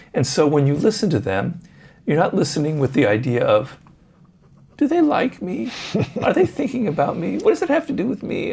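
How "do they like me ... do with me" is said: very high, put-on whiny sing-song. Acting out the thoughts of a self-absorbed listener, in a mock-whiny voice. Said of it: "you're using that voice".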